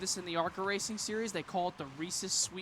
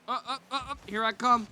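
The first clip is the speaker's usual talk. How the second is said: DiCaprio stammer; 4 semitones higher than usual. Retold or imitated. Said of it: "that scene with Leonardo DiCaprio".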